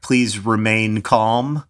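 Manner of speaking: pilot intercom. Retold or imitated. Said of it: "airline pilots say".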